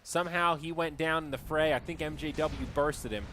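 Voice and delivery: live esports commentary; play-by-play. Acted. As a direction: call the action as it happens.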